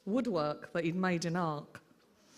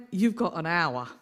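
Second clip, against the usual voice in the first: louder, a firm laying down of the law; stern order; 5 dB louder than usual. Retold or imitated. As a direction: set the deadline like a strict aunt. Aunt lays down the law.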